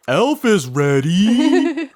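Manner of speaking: slow high laughing announcement; laughing hype. Acted. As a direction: stretch it out while laughing.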